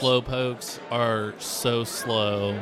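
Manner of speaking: drawn-out, very slow dictation; stretched words, steady pitch. Acted. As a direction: spell it out slowly for someone writing. Dictating an autograph message slowly.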